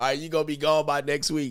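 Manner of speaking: ordinary delivery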